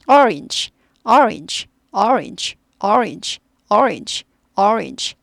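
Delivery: teacher repeats orange; orange with an o-like vowel. Shown as a demonstration. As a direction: round the first vowel of orange toward o. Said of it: "약간 오에 가까운데".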